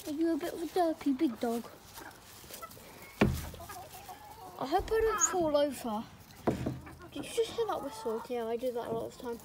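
speaking through clenched teeth; words pushed past closed teeth. Real, not acted. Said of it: "I'm just talking through my teeth".

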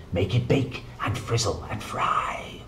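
secret whispered incantation; whispered spell. Acted. Witch Meg casting her sunshine spell in a hushed whisper. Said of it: "She said".

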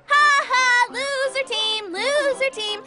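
gloating loser team chant; trash talk. Acted. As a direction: rub it in with a smug laugh. Mocking the losing team.

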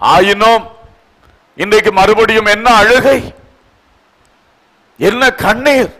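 emphatic sermon voice in rolling phrases; impassioned preaching. Acted. The Lord reminding His child of past wonders, impassioned preaching. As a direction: plead with the listener point by point.

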